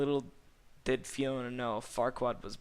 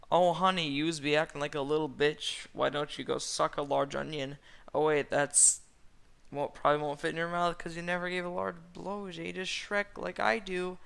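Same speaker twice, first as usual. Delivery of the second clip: higher, louder, catty put-on voice; sassy Donkit; 5 semitones higher, 5 dB louder than usual. A narrator's reading. Donkit taunting Fiona over Shrek, high and sassy. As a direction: lay into a rival with exaggerated sass.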